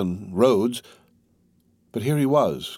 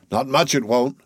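mildly exasperated, higher; 4 semitones higher than usual. Acted. Tall soldier brushing off the youth's doubt, mildly exasperated. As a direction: huff it out, lightly done.

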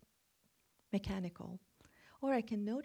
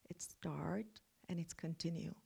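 soft, kind whispered words; gentle soft whisper; 6 dB quieter than usual. Shown as a demonstration. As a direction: speak them tenderly. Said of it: "they were very gentle".

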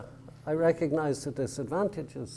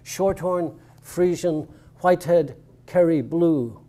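measured recital, firmer than the chat; poetry reading; 3 dB louder than usual. Acted. Poet resuming the cattle poem after an aside, measured and deliberate. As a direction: pick the verse back up, name by name.

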